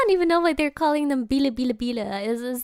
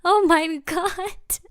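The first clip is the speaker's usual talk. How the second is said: slow, high, drawn-out exclamation; amused, long-drawn disbelief; real astonishment; 5 semitones higher, much slower than usual. Real, not acted. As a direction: react stunned, stretching every word. Real reaction to clip.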